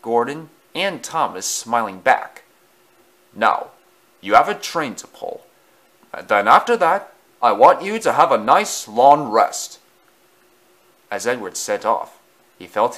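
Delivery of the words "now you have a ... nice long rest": kindly engine voice. Acted. Engine speaking to Thomas.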